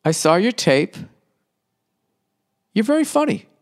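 lightly mock the booker's slow phone message; imitating the club owner. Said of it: "He's like".

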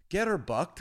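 mock teacher leading a chant; teacher's prompt. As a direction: call it out for a class to copy. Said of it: "turning around to these kids".

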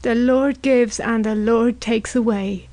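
slow, solemn group response; drawn-out pious refrain; congregational response. A narrator's reading. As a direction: answer like a mourning congregation. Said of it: "responded the others".

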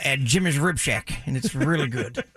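put-on redneck drawl; mock Southern redneck accent. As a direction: answer like a hammed-up redneck caller. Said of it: "I could do a redneck voice".

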